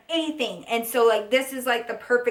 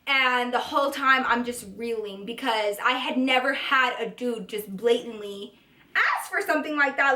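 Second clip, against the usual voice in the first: ordinary delivery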